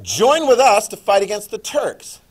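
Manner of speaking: rally them like a British officer calling allies; British urging. Retold or imitated. History teacher voicing the British to the class, mock rallying call. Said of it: "So the British are like".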